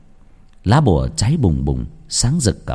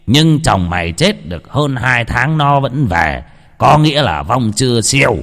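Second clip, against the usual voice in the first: put-on old shaman. Shaman explains the ghost lore.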